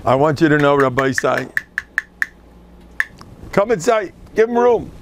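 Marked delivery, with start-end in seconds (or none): 3.5-4.9 welcoming call. Real, not acted. Greeting a guest, calling out.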